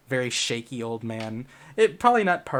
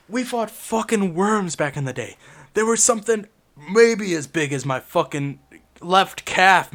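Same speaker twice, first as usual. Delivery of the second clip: put-on much higher, loud, ranting old-timer; angry old man; 4 semitones higher, 5 dB louder than usual. Shaky old man rants at the group, high and loud. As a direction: shout like a fervent old veteran.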